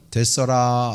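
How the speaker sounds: lightly imitated Jeolla accent; a touch of southwestern Korean Jeolla dialect. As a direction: say it as Jeolla locals would. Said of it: "전라도 사람들은".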